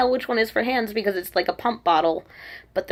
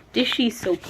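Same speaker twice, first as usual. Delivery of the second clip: put-on Korean-accented English with an added vowel; 2 semitones higher than usual. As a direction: imitate Korean-style English, syllable by syllable. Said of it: "saying in a Korean accent".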